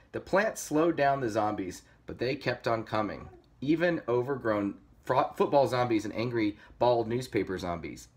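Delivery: lively storybook reading; story narration. A narrator's reading. Reader telling kids of pig versus zombies, story narration. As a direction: read it like a picture book.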